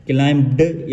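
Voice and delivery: क्लाइंब्ड with the ending after m released; sounded ending. Shown as a demonstration. Teacher showing what not to read, ending sounded. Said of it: "ऐसे नहीं पढ़ेंगे".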